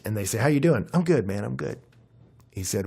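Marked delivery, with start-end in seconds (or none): 0.4-1.8 mock casual small talk. Acted small talk hiding trouble.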